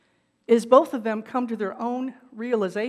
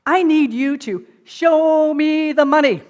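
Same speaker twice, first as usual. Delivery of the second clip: loud, slow, higher demand; demanding shout; 7 semitones higher, 11 dB louder, slower than usual. Retold or imitated. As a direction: hammer out every word of the demand. And he doesn't say it once.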